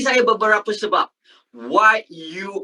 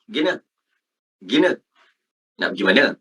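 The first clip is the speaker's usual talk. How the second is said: short, lower colloquial question; casual street Malay; 8 semitones lower, much faster than usual. Shown as a demonstration. Teacher imitates students asking where to go, casual slang. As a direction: clip the words as in everyday slang. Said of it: "you talk like that".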